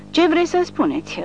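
high, suspicious query; doubtful. A narrator's reading. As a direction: ask it uneasily. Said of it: "cu îndoială în suflet".

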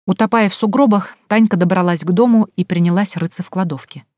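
ordinary delivery

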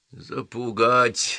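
indignant grumbling. Acted. Mr. Croup fumes to himself about orders, indignant. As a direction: stretch the word out in affront. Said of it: "возмущенно бормотал себе под нос".

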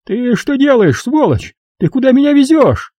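very high, panicked shrieking; notary shrieking at the driver in panic; piercing shriek. A narrator's reading. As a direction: shriek it in terror. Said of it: "Пронзительно завизжав".

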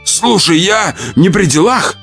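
high, anxious excuse; self-justifying. Acted. Surgeon excusing himself to Olya, anxious. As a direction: protest innocence, pitched high. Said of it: "начал оправдываться хирург".

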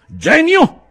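loud, high theatrical outcry; grand ringing exclamation; exclaiming. A narrator's reading. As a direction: cry it out in mock admiration. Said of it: "esclamò Settembrini".

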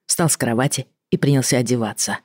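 ordinary delivery, nothing marked

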